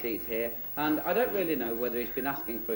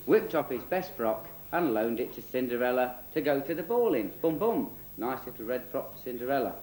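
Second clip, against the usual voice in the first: lively tongue-in-cheek fairy-tale narration; children's storyteller. Acted. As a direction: tell it like a comic bedtime story.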